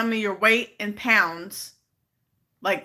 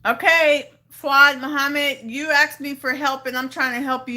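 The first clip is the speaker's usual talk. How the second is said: louder and higher, fed up; exasperated call-out; 5 semitones higher, 4 dB louder than usual. Real, not acted. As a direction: call him out, patience wearing thin. Calls out commenter again, frustrated.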